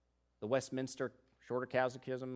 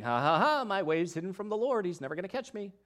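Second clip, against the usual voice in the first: mock sneer; 5 semitones higher, faster than usual. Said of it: "That's not the emphasis".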